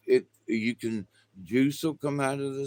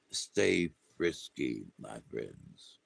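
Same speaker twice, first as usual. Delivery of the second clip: soft sign-off; 14 semitones lower, 8 dB quieter, slower than usual. Real, not acted. Sign-off to viewers.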